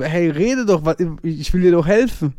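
retold aggravation. Boyfriend wants to help girlfriend, retold exasperation. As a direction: urge someone to talk, a touch cross. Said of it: "ich war so aggro".

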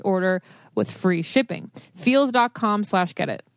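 upbeat sponsor read. Acted. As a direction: sell it like a podcast ad. Reads a sponsor ad.

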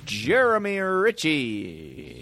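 slow, drawn-out name; echo voice. Pretend. Friend plugging the roommate's name, mock echo voice.

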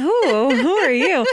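lightly hammed-up infatuated gasp; smitten woman. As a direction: play a woman charmed by the accent, lightly. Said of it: "they're like".

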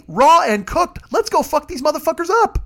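rallying yell. Pretend. Aquaman rousing Fishtown to war, hammed-up yell. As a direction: whip up the crowd.

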